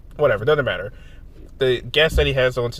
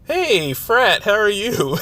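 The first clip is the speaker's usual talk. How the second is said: cute anime streamer; 9 semitones higher, 6 dB louder, much slower than usual. Real, not acted. Greeting friend in high voice.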